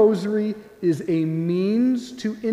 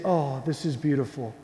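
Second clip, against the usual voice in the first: quiet wonder; 6 semitones lower, 7 dB quieter than usual. Acted. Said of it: "'cause you say".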